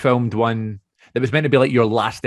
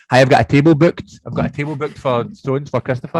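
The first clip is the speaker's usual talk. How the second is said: muffled through mask; 3 semitones higher, 7 dB louder than usual. Retold or imitated. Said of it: "you go up to the person and say".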